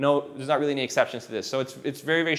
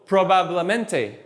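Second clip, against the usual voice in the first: Spanish pronunciation; 2 semitones higher, slower than usual. Shown as a demonstration. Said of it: "if I said probablemente".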